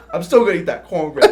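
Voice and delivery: quick, loud laughing line; laughing defiance. Retold or imitated. Recruit insisting on eating the floor cornbread, laughing. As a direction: blurt it out through laughter. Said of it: "He's like".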